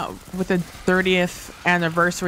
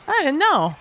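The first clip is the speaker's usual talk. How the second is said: surprised; 10 semitones higher than usual. Real, not acted. Just learned weapon type.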